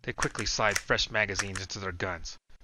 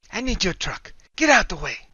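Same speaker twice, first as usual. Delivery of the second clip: cold demand; 10 semitones higher, 8 dB louder than usual. A narrator's reading. Woman demanding truck.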